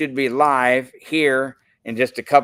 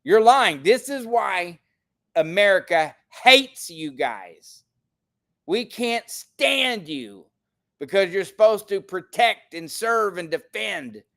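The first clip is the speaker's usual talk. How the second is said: raised, higher voice, calling him a liar; angry accusation; 4 semitones higher than usual. Retold or imitated. Man retelling how he scolded the police officer, heated and raised. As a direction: lay into the officer, voice climbing. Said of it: "I said".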